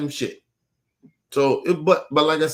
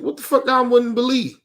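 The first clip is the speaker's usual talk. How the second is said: higher, pushy retold disbelief; imitated stunned comeback; mock outrage at her answer; incredulous demand; 11 semitones higher, 4 dB louder than usual. Retelling his demand to her.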